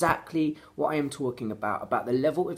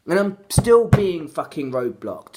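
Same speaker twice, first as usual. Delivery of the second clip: angry; 6 dB louder than usual. Real, not acted. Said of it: "pissed off now".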